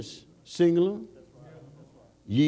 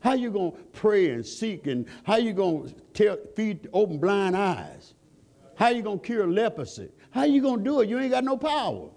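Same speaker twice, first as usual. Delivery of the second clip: climbing higher preacher's cry; fervent preaching; 5 semitones higher than usual. Acted. Preacher challenging the congregation about lost savor, fervent.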